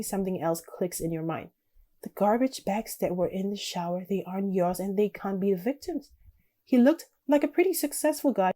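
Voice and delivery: measured second-person storytelling; story narration. A narrator's reading. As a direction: read the story out, settling at sentence ends. Reads game's story text aloud.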